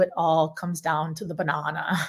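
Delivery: lightly attempted Irish accent; terrible Irish accent. Presenter quoting a colleague on his barrel choice, terrible Irish accent. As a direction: quote him in a badly faked Irish lilt. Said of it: "I do a terrible Irish accent".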